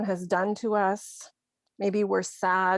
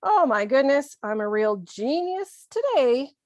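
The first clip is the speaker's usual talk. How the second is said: higher, louder joke at your own mistake; self-mocking sarcasm; 4 semitones higher, 4 dB louder than usual. Shown as a demonstration. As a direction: poke fun at yourself, punching the words. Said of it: "to make light of your own mistake".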